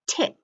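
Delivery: "tit" as tic, the end of plastic; second syllable alone. Shown as a demonstration. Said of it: "And then we hear".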